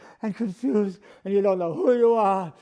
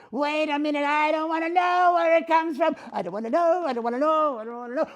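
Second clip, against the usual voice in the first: higher, sing-song mimic of the man; mocking impersonation; 4 semitones higher, faster than usual. Dummy mocking the man's whiny refusal. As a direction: parrot his whining back at him.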